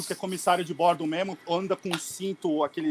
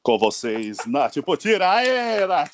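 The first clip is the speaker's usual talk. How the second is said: hyped introduction; 5 dB louder, slower than usual. Real, not acted. Host introducing the guest.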